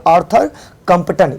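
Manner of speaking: कंपटन said with a clear T sound before the final -an; reading of कंपटन. Shown as a demonstration. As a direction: show how Arthur कंपटन is read, with T in कंपटन. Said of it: "इसको क्या पढ़ेंगे?".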